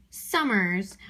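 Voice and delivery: summers with the first syllable stronger; stress on SUM. Shown as a demonstration. Teacher showing where summers is stressed, first-syllable stress. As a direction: lean on the SUM of summers, let mers fall. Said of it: "I knew that some was stressed".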